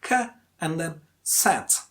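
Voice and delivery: K, then SET, slowly apart; split into syllables. Shown as a demonstration. Teacher splitting cassette for learners, slow separate syllables. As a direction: break cassette into a short K and a full SET. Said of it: "there are two syllable".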